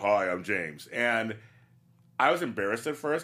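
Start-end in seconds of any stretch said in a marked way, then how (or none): 0.0-0.9 deep, dropped grown-up voice, newly broken. Retelling how his voice changed in high school: imitating his deeper new voice. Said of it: "I had a deeper voice than anybody else".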